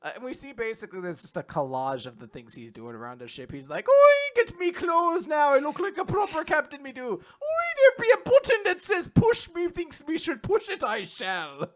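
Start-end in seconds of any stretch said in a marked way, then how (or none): 3.9-11.7 stereotypical Irish. Pretend. Captain bossing around the ship in hammy Irish. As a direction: boast in stage Irish. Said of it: "a stereotypical Irish guy".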